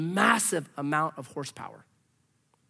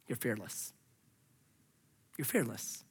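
hushed emphasis; 8 semitones lower, 12 dB quieter than usual. Acted. Preacher's hushed conclusion.

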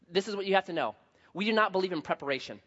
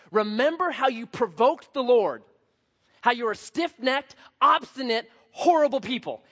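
stern Moses; 5 semitones higher, 4 dB louder than usual. Acted. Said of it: "he says this".

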